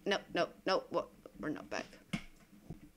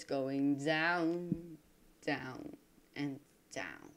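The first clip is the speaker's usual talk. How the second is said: each down slower and lower, fading softer; sinking voice; 3 semitones lower, 4 dB quieter, much slower than usual. Shown as a demonstration. Gamer showing viewers his frames dropping, voice sinking. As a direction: let the voice sink with the frame rate. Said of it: "showing the frame rate dropping".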